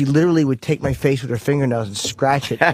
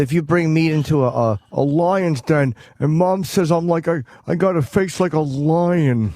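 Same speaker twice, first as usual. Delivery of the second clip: lightly put-on character voice, slowed and drawn out; a slow, slightly altered impression voice; Rocky Dennis; 3 semitones higher than usual. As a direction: drag the words out in a mild character voice. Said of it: "No, that was Rocky Dennis".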